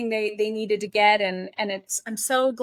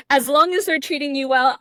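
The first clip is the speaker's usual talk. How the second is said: laughing; 4 semitones higher, 4 dB louder than usual. Real, not acted. Laughing after joke.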